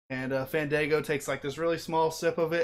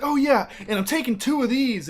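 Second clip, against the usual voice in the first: pissed off; 9 semitones higher, 6 dB louder than usual. Retold or imitated. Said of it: "he is all pissed off".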